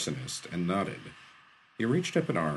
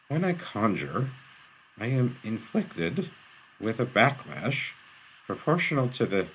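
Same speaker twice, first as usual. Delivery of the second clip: out of breath; 4 semitones higher than usual. A narrator's reading. Shaw explains his curse to the arsonist, winded. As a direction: push out a few words per breath, pitched up. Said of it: "and panted".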